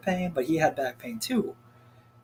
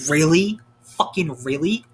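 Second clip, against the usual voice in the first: indignant disbelief; 6 dB louder, slower than usual. Retold or imitated. Venting about being refused.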